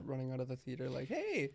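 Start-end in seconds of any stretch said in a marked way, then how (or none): 1.1-1.5 high-pitched mock "hey"; high, drawn-out taunting holler; mock calling out. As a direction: call out like a pest leaving a theater. Mimics spoiler running out of theater.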